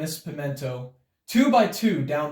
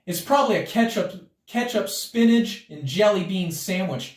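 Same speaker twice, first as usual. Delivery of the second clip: joking; 6 semitones higher, 3 dB louder than usual. A narrator's reading. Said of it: "joked Buster".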